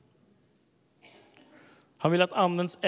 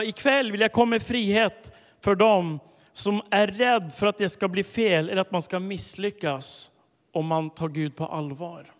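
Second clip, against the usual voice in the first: emphatic proclamation; 5 dB louder than usual. Shown as a demonstration. Preacher declaring the Spirit's word loudly to the congregation. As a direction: proclaim it with building force. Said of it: "repeated prophetic word, built up".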